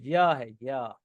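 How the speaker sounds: "या" said as a y-glide syllable; "या" sound shown. Shown as a demonstration. Teacher showing students how European begins, "या" sounded out. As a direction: sound out "या" with a clear opening y. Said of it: "इसका pronunciation जो है".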